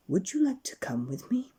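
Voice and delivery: airy whispered character voice; whispered storybook stranger; Mister Daydream whisper. Acted. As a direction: breathe it out as a mysterious figure. Daydream invites Jack.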